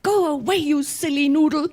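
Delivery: amused, laughing mock insult; laughing translation. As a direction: repeat the kid's insult while cracking up. Translating the child's retort, laughing.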